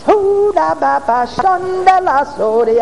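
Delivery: slow, drawn-out speaking in tongues. Real, not acted. Preacher speaking slowly in tongues while telling the story. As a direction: stretch out each syllable.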